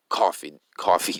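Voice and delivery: tripping over the first word; stuttering. Real, not acted. Host fumbling his channel's catchphrase, stuttering. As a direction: stumble on the word and restart it. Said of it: "I'm stuttering and muttering a little".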